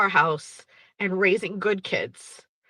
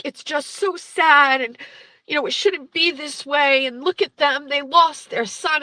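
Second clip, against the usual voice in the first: imitated plaintive plea; 7 semitones higher, 3 dB louder than usual. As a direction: wail the guilt trip in a raised voice. Mother-in-law's plea acted out.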